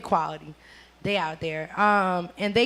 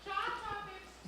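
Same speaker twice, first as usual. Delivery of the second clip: announcer voice; 10 semitones higher, 18 dB quieter, slower than usual. Pretend. Hyping the show name.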